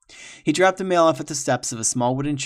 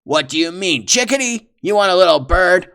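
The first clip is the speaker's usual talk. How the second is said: nervous feigned innocence; 7 semitones higher, 12 dB louder than usual. Acted. Villain playing dumb, nervous.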